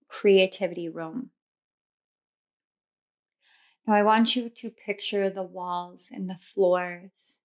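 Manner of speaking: soft, unhurried meditation voice with long pauses; guided visualization. Acted. Tarot reader guiding listeners through a Victorian mansion, guided meditation. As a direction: gently lead them through the imagined scene.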